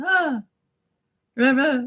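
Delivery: imitated wordless mouth sounds; Giuseppe. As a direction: vague babble instead of words. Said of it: "He would just make sounds with his mouth".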